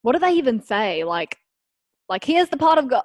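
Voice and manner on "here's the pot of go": tentative stab at an Irish accent; attempted Irish accent. Shown as a demonstration. Guest asked for an example, attempting Irish accent. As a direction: try out a shaky-confidence Irish accent. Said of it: "like an Irish".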